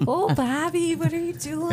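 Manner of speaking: playful impression in a Midwestern accent; mock Midwestern accent. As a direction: stretch it out in a high Midwestern lilt. Imitating a cartoon Midwestern mother.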